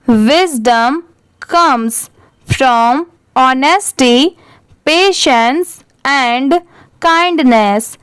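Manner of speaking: very slow, word-by-word reading; deliberate, spaced-out classroom read-aloud; slow model reading. Shown as a demonstration. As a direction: read aloud slowly for learners, pausing between phrases. Rereads the paragraph slowly for learners.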